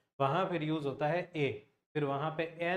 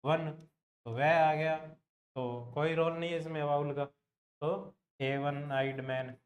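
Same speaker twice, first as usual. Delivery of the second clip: slow explanation; slower than usual. Shown as a demonstration. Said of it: "इसको कैसे लिखेंगे".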